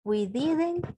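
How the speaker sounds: very slow, word by word; very slow dictation. Shown as a demonstration. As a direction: drag out the negative slowly. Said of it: "We thought about the proposal". (muy despacio, dictando)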